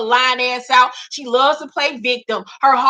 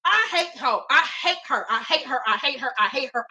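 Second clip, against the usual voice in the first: fading repetition; 7 dB quieter than usual. Real, not acted. Ranting about a pop singer, fading softer repetition. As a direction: let the words die away.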